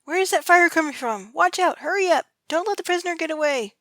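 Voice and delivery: loud high panicked shouts; shouting guard. A narrator's reading. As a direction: bark orders in a panic. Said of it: "guard shouted".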